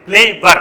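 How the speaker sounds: کلیور in two clear beats, کلی-ور; two syllables. Shown as a demonstration. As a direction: mark both syllables of کلیور. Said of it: "دوه سیلیبل باندې". (کلیور په دوو څرګندو سیلیبلونو)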